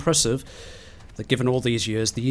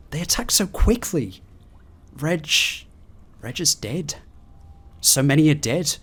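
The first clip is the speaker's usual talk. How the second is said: panicked log reading; 3 semitones higher than usual. Acted. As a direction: read it like someone hiding from monsters. Reads panicked final log.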